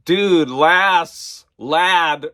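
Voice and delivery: loud, emphatic retold friend; exasperated mock correction. Friend setting her straight on Lassie, exasperated. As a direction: spell out the obvious, punching each word.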